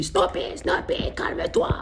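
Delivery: slow mock whisper instead of a yell; whispered scolding. Friend scolds his dog, comically whispered. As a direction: whisper the dog's name slowly, as if telling it off. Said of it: "il commence à lui crier dessus".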